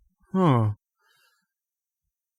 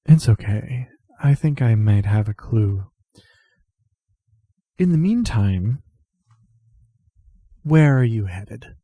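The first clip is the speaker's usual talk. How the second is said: gentle reassurance; 4 dB louder than usual. Acted. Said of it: "pats Truth on the shoulder very gently".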